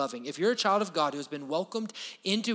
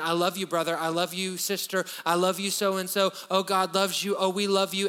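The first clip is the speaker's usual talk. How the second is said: fake churchy love. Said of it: "Don't go to church and".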